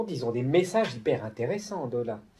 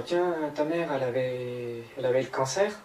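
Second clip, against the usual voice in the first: mocking the medium. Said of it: "on va poser la question".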